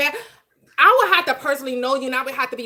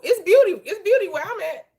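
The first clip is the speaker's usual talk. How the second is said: emphatic; 8 semitones higher than usual. Real, not acted. Insists her world is beauty.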